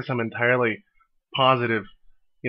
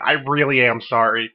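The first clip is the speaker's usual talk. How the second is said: act slipping. Real, not acted. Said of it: "Wow, you broke character".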